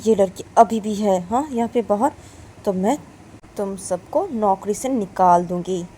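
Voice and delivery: loud, stern threatening commands; angry orders. Acted. Mistress angrily ordering guards to remove the girl. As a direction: threaten to fire them all. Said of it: "पीयू बोलती है ... guard लोगों को".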